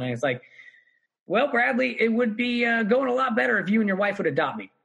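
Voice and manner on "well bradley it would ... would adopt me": mock-formal wit. Comedian teasing Brad Pitt, cheeky mock-formal. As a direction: play it mock-posh to get a laugh. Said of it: "I did it specifically for comedic effect".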